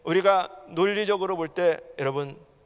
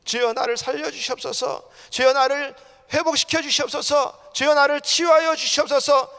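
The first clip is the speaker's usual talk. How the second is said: higher, urgent pleading, building; crying out in prayer; 7 semitones higher, 6 dB louder than usual. Shown as a demonstration. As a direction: demonstrate calling out to the Lord. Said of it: "소리 질러야 된다는 거예요". (점점 높여 부르짖는 기도)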